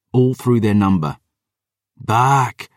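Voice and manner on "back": a sharp, high battle cry of "Back!"; "Back!" cut short and sharp, higher than normal; war cry. Acted. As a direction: bark "Back!" out like a commander's order. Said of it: "was the Black Heart's cry".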